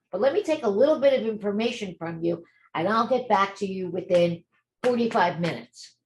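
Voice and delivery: assured phone greeting, bright push on the hellos; confident, friendly. Acted. Notary taking a new client's first call, confident and friendly. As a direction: greet the caller like a busy professional. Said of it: "to speak in a confident voice".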